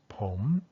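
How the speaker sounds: "pom" alone with its rise; traditional isolated tone. Shown as a demonstration. Teacher shows traditional pronunciation, "pom" isolated and rising. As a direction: say "pom" low, curving up, then stop. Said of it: "something like this".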